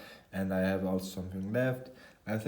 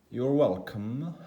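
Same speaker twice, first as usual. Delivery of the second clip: higher, slow attempt at a British accent; 4 semitones higher, 4 dB louder, slower than usual. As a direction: try a British accent on viewers from England. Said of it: "I'm trying to do a British accent".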